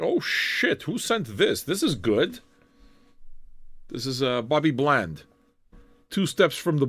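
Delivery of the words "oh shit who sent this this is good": retold surprise. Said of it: "it was one of those things like".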